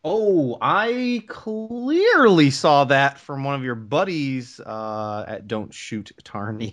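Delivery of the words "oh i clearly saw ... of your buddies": teasing. Real, not acted. Teasing about drunken game stats.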